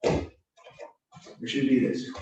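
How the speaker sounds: "Or should it be this?" said very slowly, each word stretched; slow and drawn out. Shown as a demonstration. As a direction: drag out "Or should it be this?" to make the right option stand out. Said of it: "So how should you be coming in?".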